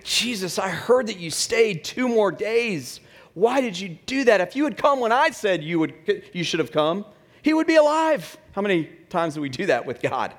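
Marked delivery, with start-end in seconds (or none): 0.0-8.4 high-pitched complaint, climbing at the end; acted reproach. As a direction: protest to Jesus, pitch jumping up on the last words. Imagined reproach of Martha to Jesus.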